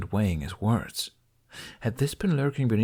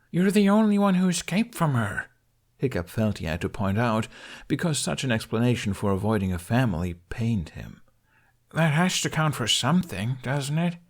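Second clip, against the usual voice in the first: much higher, pleading; earnest Hiccup; 3 semitones higher than usual. Acted. Hiccup reassuring Toothless he escaped, higher and pleading. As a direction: press the point hopefully.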